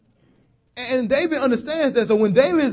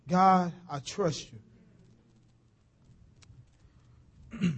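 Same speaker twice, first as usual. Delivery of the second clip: soft prayer; 3 semitones lower, 7 dB quieter, slower than usual. Acted. Slow soft prayer line.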